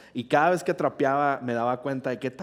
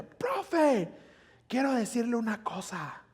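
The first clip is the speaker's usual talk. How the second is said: mock tattletale call; 8 semitones higher, slower than usual. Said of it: "esta chica grita".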